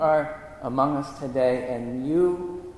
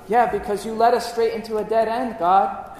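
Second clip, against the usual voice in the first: higher-pitched mock grumbling; sarcastic complaint; 4 semitones higher, 3 dB louder than usual. Israelites complain to Moses at the dead end, sarcastic. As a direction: complain with acted, sarcastic indignation.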